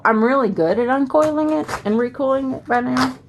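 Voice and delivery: put-on a light, playful Southern US accent. Planner vlogger jokes about her coil skills, a light Southern accent. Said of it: "That was my southern accent".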